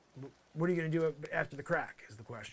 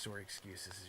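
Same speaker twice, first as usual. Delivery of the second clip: Canadian accent on "sorry", said like "sore-y" with a long open o; 7 semitones lower, 10 dB quieter than usual. Shown as a demonstration. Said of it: "I did a Canadian sorry there".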